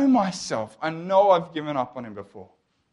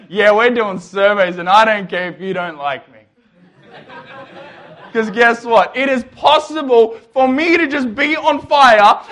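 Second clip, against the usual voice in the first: louder and laughing, gleeful defiance; defiant grin; 3 semitones higher, 6 dB louder than usual. Retold or imitated. Walking around after her testimony, louder laughing defiance. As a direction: grin through it, laughing and loud. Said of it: "grin man".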